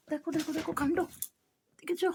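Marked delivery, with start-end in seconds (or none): none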